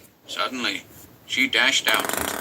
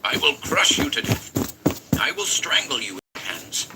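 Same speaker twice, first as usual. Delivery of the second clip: groaned threat; 3 semitones higher, 3 dB louder than usual. Acted. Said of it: "Elliot groaned".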